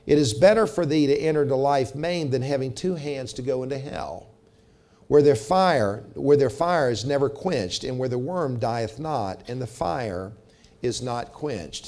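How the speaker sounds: measured, solemn reading of the verses; scripture reading. Acted. Preacher reading the Bible verses to the congregation, solemn. Reads scripture aloud in sermon.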